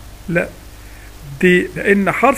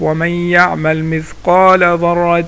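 ترتيل؛ تلاوة بطيئة مرتلة؛ رتّلها كقارئ؛ تلاوة مجودة بطيئة; 3 dB louder, much slower than usual. Shown as a demonstration. تلاوة الآية.

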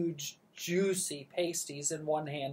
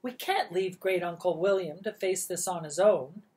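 bossy aunt; 4 semitones higher, 5 dB louder than usual. Acted. Bossy aunt giving orders.

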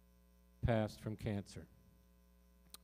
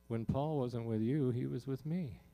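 higher, gently voiced reassurance; happy, calm voice; 3 semitones higher than usual. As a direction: retell the voice as calm and happy, pitched up. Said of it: "it just was really happy".

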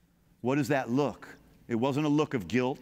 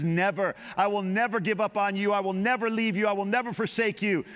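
firm, steady reassurance; a hint of God's voice, resolute; God's promise; 6 semitones higher than usual. God answering the doubting believer, lightly voiced reassurance. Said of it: "And He says".

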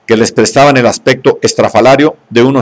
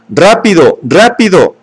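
high urgent shriek; 6 semitones higher, slower than usual. A narrator's reading. Bernard shrieking at the police to hurry. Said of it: "chillaba Bernard".

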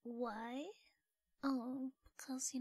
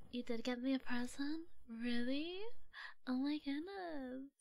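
delighted surprise; 5 dB louder than usual. Acted. Gasps at learning of present.

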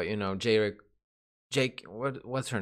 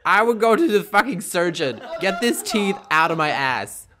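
laughing; 5 dB louder than usual. Real, not acted. Laughing at a silly question.

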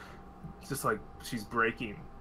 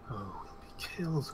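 fearful whisper; 2 semitones lower, 6 dB quieter than usual. Acted. NPC whispers fear.

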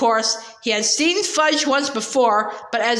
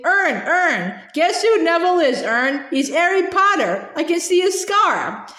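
excited calling; 4 semitones higher than usual. Acted. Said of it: "Stan shouted gleefully".

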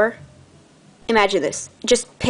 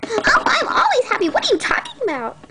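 laughing indignation; 13 semitones higher than usual. Acted.

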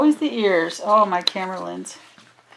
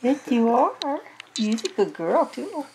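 squeaky praising a dog; 5 semitones higher, 4 dB quieter than usual. Real, not acted.

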